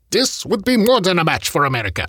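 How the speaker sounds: high, put-on German accent for Hitler; bad German accent. Podcast host quoting Hitler to Matsuoka, bad German accent. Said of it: "bad German accent".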